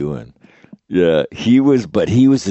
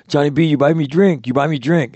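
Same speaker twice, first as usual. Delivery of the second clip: higher, imitating a Filipino bar girl's broken English; mock bar girl pleading in a Filipino accent; bar girl pidgin; 7 semitones higher than usual. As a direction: wheedle for a drink in a light Filipino accent. Bar girl voiced in story.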